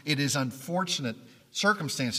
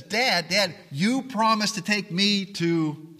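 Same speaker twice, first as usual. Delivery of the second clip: a lightly voiced child nagging, higher and louder; pleading child; 5 semitones higher, 4 dB louder, slower than usual. Child reminding dad of a promise, lightly voiced. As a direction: play a kid tugging at his father. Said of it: "child comes up to you and says".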